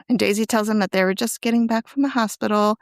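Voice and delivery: whispered recap line; hushed telling of the story. Real, not acted. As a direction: drop to a breathy whisper for the line.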